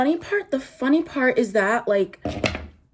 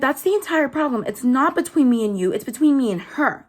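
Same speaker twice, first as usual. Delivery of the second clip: retold comeback; 4 semitones higher, 4 dB louder than usual. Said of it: "I'm like".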